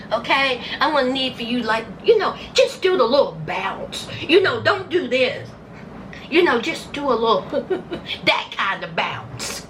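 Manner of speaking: lightly voiced director giving orders; bossy producer. Vlogger playing producer coaching Brittany's fake tears, lightly bossy. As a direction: coach her like a pushy producer. Imagining himself as the show producer.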